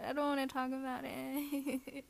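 quiet retreat. Acted. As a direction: pull back and say it gently. Quieter repeat, calmer.

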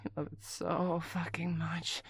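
soft teasing whisper. Acted. Caller teasing an absent partner, soft whisper. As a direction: whisper the question close to the mic.

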